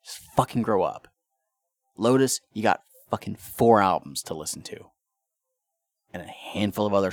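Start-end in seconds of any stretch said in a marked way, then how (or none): 0.0-4.9 rising real irritation; getting angry. Real, not acted. Host ranting at a band's fans, real rising anger. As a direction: let real anger creep in. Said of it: "I'm getting angry right now".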